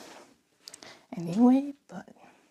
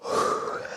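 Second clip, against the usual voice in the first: yawn. Real, not acted. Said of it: "sorry for yawning".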